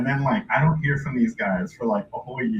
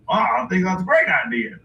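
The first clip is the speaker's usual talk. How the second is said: high, quick, eager rube; agreeable hillbilly buyer; 5 semitones higher, faster than usual. Retold or imitated. Buyer likes the offer, eager hillbilly. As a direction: go along gladly in a higher voice. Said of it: "And then he's all like".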